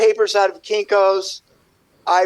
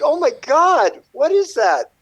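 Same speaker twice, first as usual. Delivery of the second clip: higher-pitched reenacted astonishment; retold amazement; 7 semitones higher than usual. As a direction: act out being stunned by what you see. Retelling amazement at unrecognized own art.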